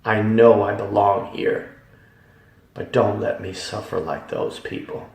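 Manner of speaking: a retold cry to God from the edge of the pit. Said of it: "I cried out".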